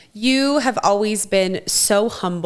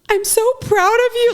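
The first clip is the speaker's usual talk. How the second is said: retold tearful pride; 14 semitones higher than usual. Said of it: "was like".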